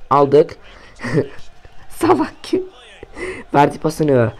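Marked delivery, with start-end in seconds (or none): 1.9-2.6 shouting. Real, not acted. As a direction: shout in disbelief. Yelling at the game.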